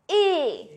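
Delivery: closed, drawn-out vowel on "Et"; closed é sound. Shown as a demonstration. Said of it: "My mouth is like that". ("Et" en é fermé, allongé)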